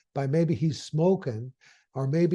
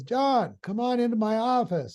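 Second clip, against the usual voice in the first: pitched up, calling down the hall; boss calling out; 6 semitones higher than usual. Retold or imitated. The boss calls John into his office, a high call. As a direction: summon him with a raised, higher call. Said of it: "But then his boss says".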